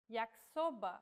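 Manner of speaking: Yakisoba said as ya-ki-SO-ba, Y like the vowel I; Portuguese word demo. Shown as a demonstration. Teacher models Yakisoba for learners, careful pronunciation. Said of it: "The letter Y is read like the vowel I".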